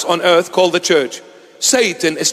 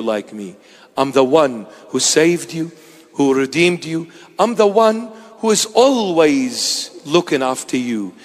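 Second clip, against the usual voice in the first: lower, gentle voice of a loving father; tender Jesus; 4 semitones lower than usual. Acted. Jesus comforting a fallen believer, a touch tender. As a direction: speak to a frightened child on the ground. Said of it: "he will come so tenderly and say".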